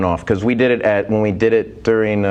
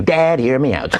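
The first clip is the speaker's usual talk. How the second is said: J C Kasem; 4 semitones higher than usual. Retold or imitated. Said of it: "I come out and go".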